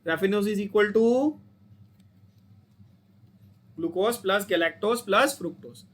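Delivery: very slow, word by word, for the class to repeat; slow recitation. Shown as a demonstration. Teacher leading students to repeat the formula, very slow chant. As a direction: spell it out slowly so students can chant along. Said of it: "बोलो साथ में वापस".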